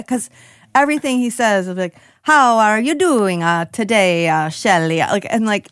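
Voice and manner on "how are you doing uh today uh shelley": put-on Italian accent. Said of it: "making fun of an Italian accent".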